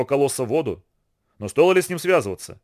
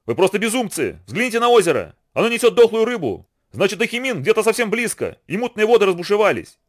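much higher, urgent shouted warning; a raised, alarmed warning to the young men; cried out; 7 semitones higher than usual. A narrator's reading. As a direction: cry out the danger in alarm. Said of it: "выкрикнул Хунси".

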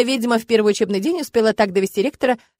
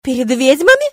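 loud, outraged wail; loud indignant howl; 4 semitones higher, 7 dB louder than usual. A narrator's reading. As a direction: howl it in offended disbelief. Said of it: "буквально взвыла она".

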